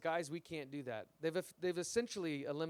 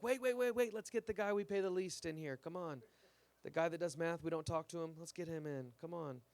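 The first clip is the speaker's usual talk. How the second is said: lightly voiced boss calling for the new guy; mildly urgent, summoning the lowest-paid guy; a hint of a frantic office manager; 3 semitones higher than usual. Office coworkers quoted.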